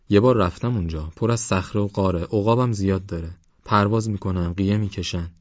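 lightly voiced youngster recounting an adventure; a hint of eager boasting; adventurous young Parvaz.

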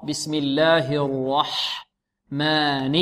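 بسم الله الرحمن slowly, with a heavy, full ra in الرحمن. Shown as a demonstration. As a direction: draw out الرحمن, thickening the ra. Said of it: "الراء في البسملة مفخمة الراء". (ترتيل بطيء مع تفخيم الراء في الرحمن)

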